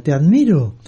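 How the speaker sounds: restrained call out to the mountain; mild mock shout. Father calls to the mountain, mild mock shout. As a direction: call it out without really yelling. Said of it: "el padre gritó a la montaña".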